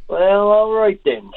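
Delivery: put-on drawn-out, high-pitched Southern Shore accent; high, stretched Southern Shore vowels; Southern Shore twang. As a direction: imitate her slow Southern Shore twang, well up in pitch. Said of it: "in her Southern Shore twang".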